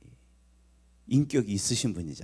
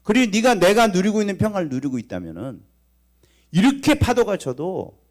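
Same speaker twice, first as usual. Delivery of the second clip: higher, louder preacher's cry; preaching at full force; 7 semitones higher, 5 dB louder than usual. Acted. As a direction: drive the rebuke home from the pulpit. Preaches Jesus' rebuke.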